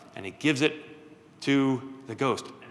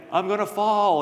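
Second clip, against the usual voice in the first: spooky ghost call; 7 semitones higher, 5 dB louder than usual. Acted. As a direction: stretch each word out like a ghost calling from the chimney. Ghost calls a second time.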